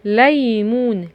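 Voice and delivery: ليمون said slowly with both syllables stretched; drawn-out demonstration. Shown as a demonstration. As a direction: sound out ليمون for young learners. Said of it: "ادي الصورة اللي فيها لا". (نطق ليمون ببطء ومد المقاطع)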